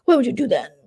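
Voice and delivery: high, whiny mock of Momo. Imitating Momo complaining about the host in a high whine. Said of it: "So Momo's like".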